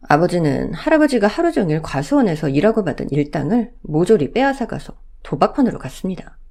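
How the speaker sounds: ordinary delivery, nothing marked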